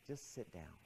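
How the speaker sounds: very soft, low murmur; inner voice. Retold or imitated. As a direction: quietly nudge from inside the head. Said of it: "And the voice said".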